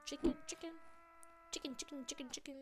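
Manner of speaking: teasing, repeated chicken chant; playful taunt. Pretend. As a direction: taunt a runaway coward in play. Taunting a fleeing game opponent.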